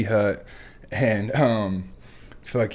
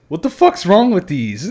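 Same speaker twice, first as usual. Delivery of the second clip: higher, louder mock drill instructor bark; drill instructor yell; 8 semitones higher, 6 dB louder than usual. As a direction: imitate the instructor blowing up at recruits. Drill instructor voiced yelling.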